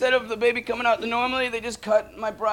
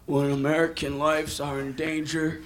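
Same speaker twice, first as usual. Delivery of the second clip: much lower, slow, humble mock-sincere voice; 4 semitones lower, slower than usual. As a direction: drop the voice and go all humble like a witness. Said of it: "his voice would go down".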